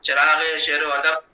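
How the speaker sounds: steady, metrical mushaira delivery; Urdu poetry recitation. Acted. Poet honouring the academy's head at an online mushaira, measured poetry recitation. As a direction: recite the verse in measured phrases, resting on the refrain.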